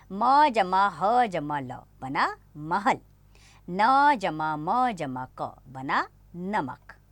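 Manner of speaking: slow, letter by letter, each sound held; slow spelling out. Shown as a demonstration. Teacher blends letters into words slowly for children. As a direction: build the word letter by letter, slowly. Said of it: "तीन वर्णों से बने शब्द पढ़ेंगे".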